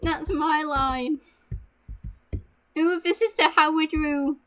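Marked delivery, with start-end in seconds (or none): 2.8-4.4 lifted "Ooh", announcing a room; set tone of voice. Shown as a demonstration. Coaching a friend on their line, raised demonstrative tone. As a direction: show the tone for someone to copy. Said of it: "in that tone, but your line is".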